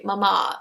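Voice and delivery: "mama" with the accent on the final a; "mama" as muh-MAH; accent on last A. Shown as a demonstration. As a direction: say "mama" with weight on its last syllable. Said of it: "there's an accent on the last A".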